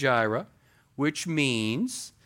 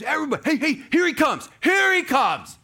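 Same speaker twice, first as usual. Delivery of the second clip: loud, high excited shout; John yelling; 13 semitones higher, 7 dB louder, faster than usual. Acted. John the Baptist calling to the crowd, loud high shout. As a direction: call out to the crowd that he's coming. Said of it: "he yells out".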